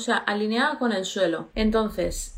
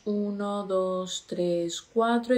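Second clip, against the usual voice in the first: slow counting; slower than usual. Shown as a demonstration. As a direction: count to four slowly, one number at a time.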